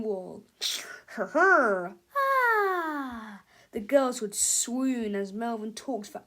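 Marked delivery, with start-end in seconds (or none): 1.2-3.4 triumphant laugh. Acted.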